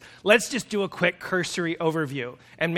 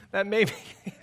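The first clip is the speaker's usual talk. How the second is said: laughing; much faster than usual. Real, not acted. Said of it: "can't even read this without laughing".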